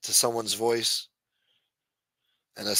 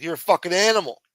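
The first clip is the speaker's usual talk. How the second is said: retold insult; 7 semitones higher, 6 dB louder, faster than usual. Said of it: "I'm like".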